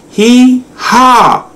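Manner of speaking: high-pitched mock animal laugh; laughing hyena call. A narrator's reading. Hyenas rushing past the giraffe, mock laughing call. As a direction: cackle it in two high syllables. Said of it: "called the laughing hyenas".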